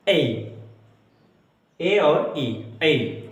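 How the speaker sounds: ए said alone, then as ए and ई; teacher modelling the ए glide; diphthong demo. Shown as a demonstration. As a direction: show ए gliding to ई. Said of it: "यही है".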